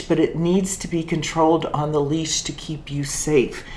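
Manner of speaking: steady, even, patient telling; calm explanation. Retold or imitated. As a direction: explain it calmly to the fallen woman. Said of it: "just calmly said to her".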